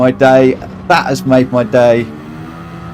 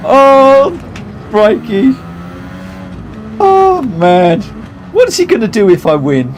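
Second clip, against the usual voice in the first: laughing; 5 semitones higher than usual. Real, not acted. Laughing at chat.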